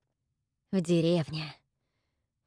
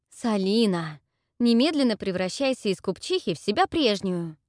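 stamping demand; 4 dB louder than usual. Acted. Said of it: "топнула я ногой".

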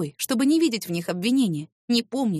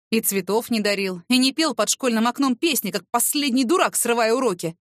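rising angry rant; 2 semitones higher than usual. Acted. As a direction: build the tirade up. Boss berates her, rising. (нарастающий гнев)

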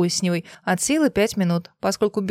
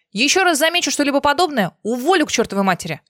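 angry threat; 6 semitones higher, faster than usual. A narrator's reading. Doctor threatens the nurse.

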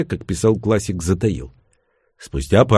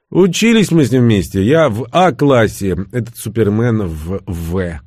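raised voice, slowing as it goes; lightly voiced Левша; 4 dB louder than usual. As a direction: lightly voice a comrade explaining old history. Narrator voices Левша in dialogue.

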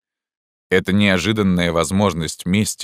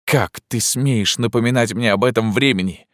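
higher, indignant burst; angry outcry; 6 semitones higher than usual. Acted. Narrator cries out in jealous anger at Pierrot. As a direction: hurl the question in jealous rage. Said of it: "вскричал я".

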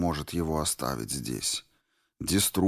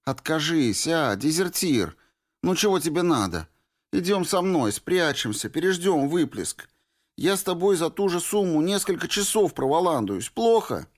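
put-on higher pleading girl's voice; Norris voiced; 10 semitones higher than usual. A narrator's reading. Girl urging the deserter to hide, higher and pleading. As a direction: play the stubborn girl urging him to hide.

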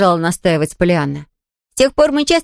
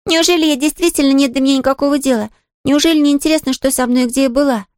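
put-on higher, bright girlish voice, cheerful and apologetic; a young girl brushing off the maid's worry; little girl Pollyanna; 7 semitones higher than usual. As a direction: play the eager little girl, light and quick to reassure.

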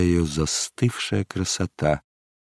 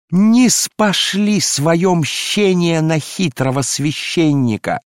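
much higher, loud, slow ecstatic wailing; frenzied invocation; 10 semitones higher, 5 dB louder, slower than usual. Acted. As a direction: cry out to God in a frenzy. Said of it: "исступлённо взывала". (исступлённый вопль к Богу)

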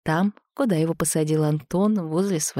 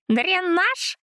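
excited exclamation. A narrator's reading. Zina smashing pots.

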